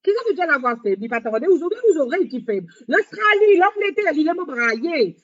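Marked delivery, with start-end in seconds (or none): 2.9-4.1 excited naming of countries. Real, not acted. Listing countries with enthusiasm.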